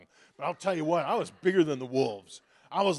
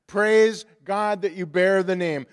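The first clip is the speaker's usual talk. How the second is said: louder, laughing through the words; joyful laughing repeat; 10 dB louder than usual. Real, not acted. Pastor repeats the verse to the congregation, laughing.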